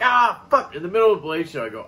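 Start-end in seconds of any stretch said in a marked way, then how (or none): 0.0-0.8 high, loud mock realization; retold dismayed outburst. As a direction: re-enact kicking yourself out loud. Retold outburst on realizing his mistake.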